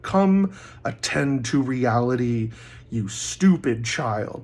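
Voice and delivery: slow, commanding fatherly rebuke; fatherly, brutal focus. Retold or imitated. Speaker voicing what his yell meant to the girl, fatherly brutal focus. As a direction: drive each word home slowly, like a stern father. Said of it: "like a fatherly, brutal focus".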